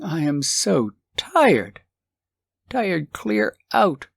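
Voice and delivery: slow, drawn-out tiredness; a worn-out husband, slowed right down; weary sigh. Acted. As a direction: let the words sag with fatigue.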